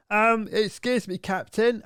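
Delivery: high, slow, polite stewardess voice; timid interruption of the captain. Retold or imitated. Stewardess interrupting the captain, high and timid. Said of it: "the stewardess comes in the front like".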